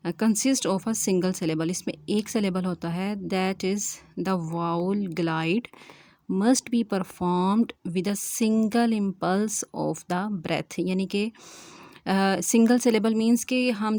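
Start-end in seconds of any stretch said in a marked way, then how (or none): 3.2-10.7 slow, spaced-out dictation of a definition. Acted. Teacher dictating the monophthong definition to students, slowly and deliberately. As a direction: read each phrase slowly so students can write it down.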